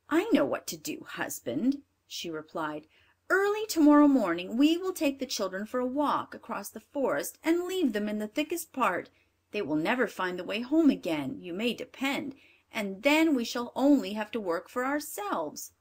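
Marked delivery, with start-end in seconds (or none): 0.1-1.8 firm, scheming stepmother; a hint of a cold stepmother; wicked stepmother. Stepmother voiced in fairy tale. 3.3-15.7 louder, scheming stepmother; cold plotting stepmother voice; wicked stepmother. Acted. Stepmother voiced in fairy tale.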